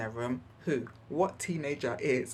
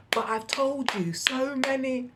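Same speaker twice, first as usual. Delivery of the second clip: louder, higher, lecturing exasperation; exasperated; 9 semitones higher, 6 dB louder than usual. Retold or imitated. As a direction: hammer the point home, fed up. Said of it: "I found myself going".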